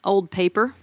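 talking while chewing gum. Real, not acted. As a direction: gum in the mouth while speaking. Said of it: "I have gum in my mouth".

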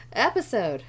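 word breaks upward mid-voice; voice cracking. Real, not acted. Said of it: "My voice just cracked like a teenage boy".

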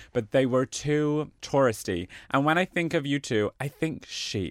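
put-on lightly done American valley accent; a hint of an American accent; weird American accent. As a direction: read the card in a mild American accent. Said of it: "gonna go with this weird American accent".

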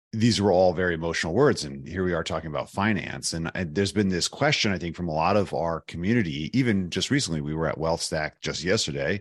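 hoarse, worn-out voice after a conference; hoarse lost voice. Real, not acted. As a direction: rasp through a tired, used-up voice. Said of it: "That's why I have no voice left".

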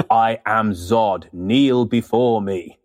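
slow, imperious villain command; lightly voiced menacing general; General Zod. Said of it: "who plays General Zod".

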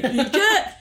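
loud mock call sliding low to high; low high shout. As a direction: shout "Inkjet" dropping low then jumping high. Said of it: "he did this low high thing".

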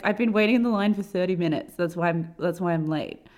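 mildly aggressive Karen imitation; Karen-y complaint. Traveler retelling complaint at check-in, mildly Karen-y. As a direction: complain with a touch of Karen indignation. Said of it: "like, Karen-y voice".

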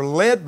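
"led" picked out with a rise in pitch; emphatic "led" within the verse; stress on led. Real, not acted. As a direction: lean on the word "led". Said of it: "I emphasize the word led".

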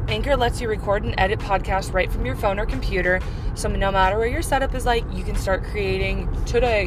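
upbeat sponsor read, selling it. Acted. Host reads sponsor ad to listeners, upbeat ad read. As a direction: pitch Anchor to the podcast listeners.

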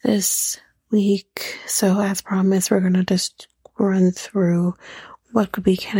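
whispering. Real, not acted. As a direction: say it all in a hushed whisper. Whispered outro segment.

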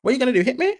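loud, high "Hit me" dare; retold taunting shout. Daring the neighbor squaring up to hit her, loud. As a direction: goad him to swing, mock yelling. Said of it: "I'm like".

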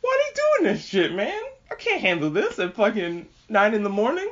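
very high, strained whiny wail; mock wail. Overwhelmed by the sad credits, a hammed-up high wail. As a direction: wail like you can't take it. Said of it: "And I'm like".

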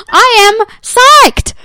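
high, loud and drawn out; slow ecstatic squeal of joy; psyched. Real, not acted. Excited about back-to-back seasons.

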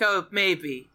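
low, mock-evasive fatherly answer; Father Solomon. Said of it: "He's like".

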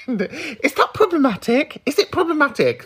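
mock-guilty giggled question; laughing. Real, not acted. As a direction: ask it while still laughing. Laughing at own confession.

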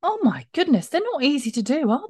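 high, exclamatory gasp of effort; exclaiming. Real, not acted. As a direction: exclaim how hard it was, up high. Breathless after blowing up balloons.

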